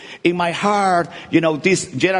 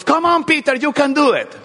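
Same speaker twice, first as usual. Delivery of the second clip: mock cheering; 9 semitones higher than usual. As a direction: cheer Peter on like a teammate. Imagined disciples cheering Peter.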